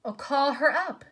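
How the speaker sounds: a faint voice from beyond the grave; gray voice. A narrator's reading. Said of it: "said the gray voice".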